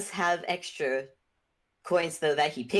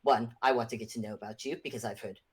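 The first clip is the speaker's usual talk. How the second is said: lower, lightly put-on character voice; eager party host character; 5 semitones lower than usual. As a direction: eagerly coax them along in character.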